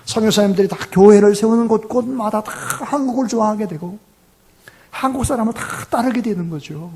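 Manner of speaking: high-pitched, emphatic preaching; impassioned preaching. Real, not acted. Pastor extolling missionaries to his congregation, impassioned and high.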